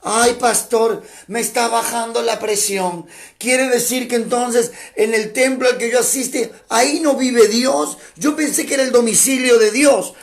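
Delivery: hammed-up worried member of the flock; shocked churchgoer. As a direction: play the flustered church lady. Preacher voicing shocked congregant.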